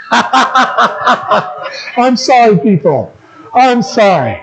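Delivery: chuckling through a sorry, drawn out slowly; laughing apology. Real, not acted. Preacher apologising to the congregation for the joke, laughing.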